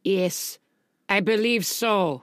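put-on low-key comic German accent; measured German-accented reply. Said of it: "playing him as a former Nazi sympathizer".

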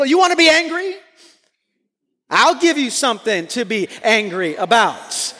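mock parent threat. Parent threatening an angry child, hammed-up mock stern. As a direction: ham up the classic parent warning. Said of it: "the classic parenting line".

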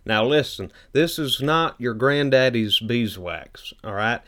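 a hint of a drawling southern huckster selling wax; Billy Bob Thornton. Cohost pitches carnauba wax as a folksy salesman, lightly voiced. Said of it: "That is a really good Billy Bob Thornton".

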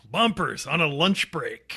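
slow, drawn-out announcer read. Acted. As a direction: announce the show title. Announcing bumper title.

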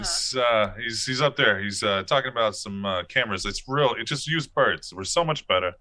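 1920s mobster bird, lightly voiced; gangster bird voice. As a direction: talk like a wiseguy bird. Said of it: "All the birds sound like gangster from the nineteen twenties".

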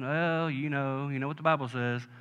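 a hint of a wise old counselor; calm old man. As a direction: lightly voice an old man calming you down. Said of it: "the old bucks, they kinda settle down".

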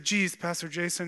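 lightly imitated awkward character voice; a hint of a movie-character impression; Kip. Youth leader answering his pastor, lightly done Kip voice. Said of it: "like Kip".

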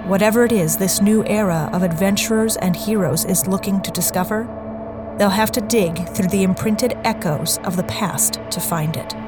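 dramatic podcast intro read; trailer narration. Acted. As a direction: narrate it like a trailer over music. Intro read over music.

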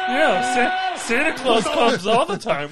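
put-on very high, loud quirky girl voice; exaggerated high comic actress impression; Zooey Deschanel. Quirky girl asking buddy about his excitement, high and loud. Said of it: "Drew's impression of Zooey Deschanel".

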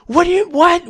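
high, stumbling disbelief; baffled. Retold or imitated. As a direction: trip over the words in confusion. Baffled by her explanation.

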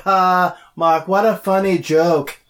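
a slow, mock-jovial celebrity imitation; half-serious impression with a stilted "Ha"; Tommy Wiseau. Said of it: "sound like Tommy Wiseau".

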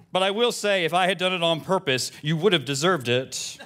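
lightly voiced indignant church lady; a hint of a huffy parishioner scolding the pastor; Shirley. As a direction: read the email with mild mock indignation. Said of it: "from Shirley M Pitts".

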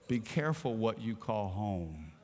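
low, soft, hushed divine voice; soft whisper. Acted. Holy Spirit whispering to the preacher, low and soft. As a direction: speak it gently and low as a warning. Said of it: "the Holy Spirit whispered to me".

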